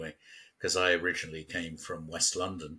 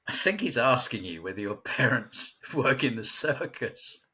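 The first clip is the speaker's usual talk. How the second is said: laughing explanation; 5 semitones higher than usual. Retold or imitated. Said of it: "And I said".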